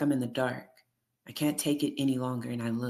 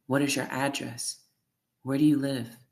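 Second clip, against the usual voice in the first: getting louder. Acted. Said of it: "Her voice is getting louder".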